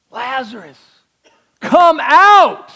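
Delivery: high, loud shout into the tomb; loud call. Acted. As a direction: shout him out of the grave. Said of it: "called out in a loud voice".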